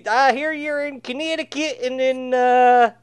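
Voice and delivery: high, loud, drawn-out mock Texas twang; bad Texas accent. Imitating the Russian caller with a Texan twang, bad Texas accent. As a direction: holler a badly faked Texas accent. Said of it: "I don't do a Texas accent very well".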